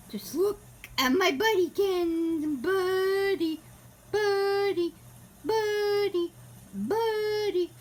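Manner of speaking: fond cooing pet talk. Real, not acted. Baby talk to her cat.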